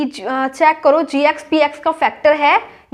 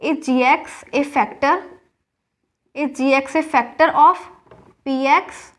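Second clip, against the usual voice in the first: slow dictation; much slower than usual. Shown as a demonstration. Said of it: "तो हमें check करना है".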